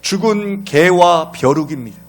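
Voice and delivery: loud calling out. Acted. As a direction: call out loudly to a king far off. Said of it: "다윗이 큰 목소리로".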